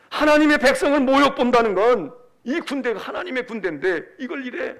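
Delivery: acted outrage, emphatic and incredulous; David. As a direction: protest passionately on God's behalf. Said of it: "분을 참지 못하는 거야".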